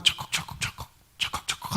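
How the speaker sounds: repeated clacking sound effect; imitated lock rattling. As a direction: mimic someone working a locked handle. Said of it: "하는 소리가 들리는 거예요".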